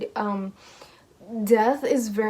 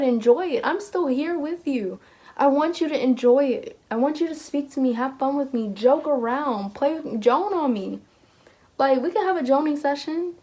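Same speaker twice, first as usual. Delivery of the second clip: pleading higher voice of a lost loved one; 4 semitones higher than usual. Retold or imitated. Spirit of a lost loved one urging the listener, pleading and higher. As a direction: coax them gently to have fun. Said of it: "they're still trying to say".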